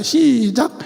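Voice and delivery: a loud cue to begin the chant. Real, not acted. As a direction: call out 시작 like a cue to the congregation. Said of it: "한번 해볼까요?".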